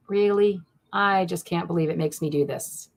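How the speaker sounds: ordinary talk, nothing marked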